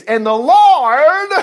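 slow, high and loud, stretched out; drawn-out praise. Real, not acted. Preacher drawing out the Lord for his congregation, slow and soaring. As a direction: stretch it out in awe.

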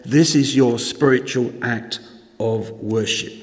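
measured formal reading of a Bible passage; scripture reading. Acted. Pastor reading Romans twelve to the congregation, solemn reading voice.

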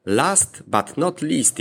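slow, deliberate English phrase; quoting English. Retold or imitated. Polish vlogger quoting what the English say, slow and careful. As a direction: savour the English saying word by word. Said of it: "jak mawiają Anglicy".

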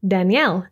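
Daniel as dan-YELL, Danielle; English pronunciation. Shown as a demonstration. Teacher contrasting names between languages, English Daniel as Danielle. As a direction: say Daniel as Danielle, stressed last. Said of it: "followed by the English pronunciation".

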